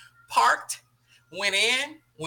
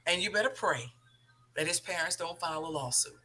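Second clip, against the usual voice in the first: quiet stern warning; 4 semitones lower, 5 dB quieter than usual. Retold or imitated. Acted mother warning her son.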